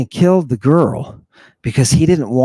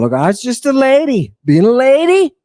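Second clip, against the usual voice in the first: higher, lightly put-on lady voice; a light, higher woman's voice; lady's voice; 6 semitones higher than usual. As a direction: play the demure lady telling her story. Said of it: "She says, I'm telling you".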